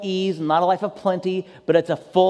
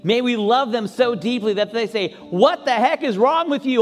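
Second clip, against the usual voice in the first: fervent closing prayer. Acted. Pastor praying for the congregation, fervent then hushed. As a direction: pray over the church with building passion.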